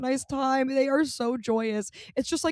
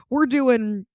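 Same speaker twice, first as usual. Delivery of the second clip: laughing; 2 semitones higher, 3 dB louder than usual. Real, not acted. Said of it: "laughing restart".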